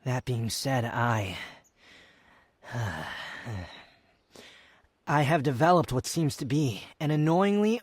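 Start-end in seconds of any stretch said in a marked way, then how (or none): 2.7-3.7 low, soft resigned sigh; a quiet sigh before the hard words; heavy sigh. Acted. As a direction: breathe out the nerve to confess. Hesitant pause before confessing.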